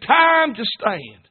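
slow, stretched-out delivery; preacher stretches out the call to stand; drawn out. Real, not acted. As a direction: lean on every word and drag it out. Preacher drives home the phrase.

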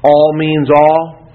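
slow, weighty "all" at both ends; quoted maxim, emphatic. Retold or imitated. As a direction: stretch each "all" to drive it home. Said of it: "used to say".

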